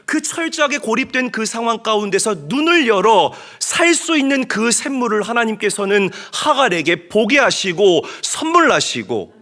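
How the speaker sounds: loud, high fervent preaching; impassioned sermon climax. Real, not acted. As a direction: drive the point home to the congregation. Preaching at full force.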